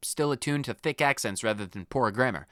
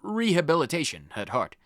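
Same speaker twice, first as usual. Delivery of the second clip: lightly voiced old headmaster. Lightly voiced headmaster addressing the students about rehabilitation. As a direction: read the headmaster's lines in a light, lowered schoolmaster voice.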